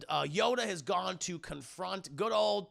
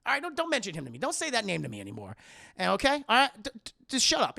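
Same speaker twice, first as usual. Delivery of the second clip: high whiny Anakin; 6 semitones higher, faster than usual. Retold or imitated. Anakin snapping at Padme, acted.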